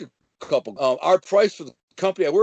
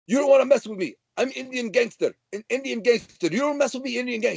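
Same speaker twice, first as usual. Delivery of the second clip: mock gangster threat; 7 semitones higher than usual. Tony threatening, retold with voice.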